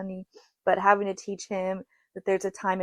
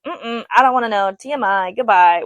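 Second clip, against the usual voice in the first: imitating mom; 7 dB louder than usual. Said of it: "My mom will be like".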